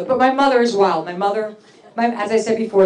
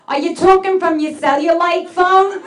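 mom mishearing; 5 semitones higher than usual. Retold or imitated. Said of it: "I'm on my cell, Mom".

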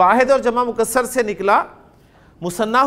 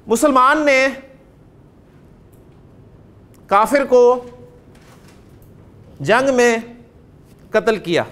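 word by word, with long pauses between; slow dictation. Shown as a demonstration. Teacher dictating a sentence to students, slow and word by word. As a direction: dictate each word slowly so the class can write it. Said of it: "अब जुमला बोलता हूँ".

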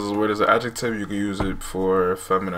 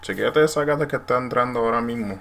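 Puerto Rican accent; 2 semitones higher, faster than usual. Shown as a demonstration. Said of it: "tap my partner and be like".

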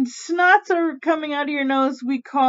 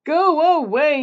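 mildly raised, higher-pitched mock yell; storybook yell; 5 semitones higher, 4 dB louder, slower than usual. Aunt Nasty sending the witch doctor away, mock yelling. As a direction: shoo them off crossly, lightly acted. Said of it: "yelled Aunt Nasty".

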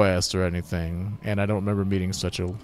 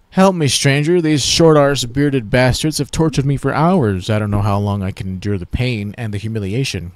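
loud, high cry for help easing as it goes; pleading tortured prisoner; 4 semitones higher, 8 dB louder than usual. Acted. Tortured elf begs a passing stranger, pleading loudly. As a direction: beg a stranger for rescue, aggrieved.

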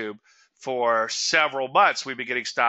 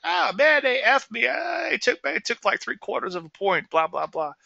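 much higher, shouting rant; retold angry rant; 11 semitones higher than usual. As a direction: vent like you just got robbed. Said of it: "It's like".

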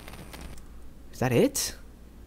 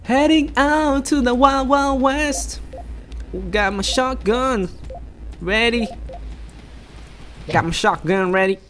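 hammed-up Southern hick accent, much higher and slow; bad hick accent; 8 semitones higher, slower than usual. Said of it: "that's the worst hick accent".

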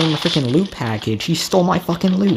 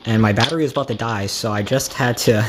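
out of breath; 4 semitones lower than usual. Real, not acted. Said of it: "I'm out of breath right now".

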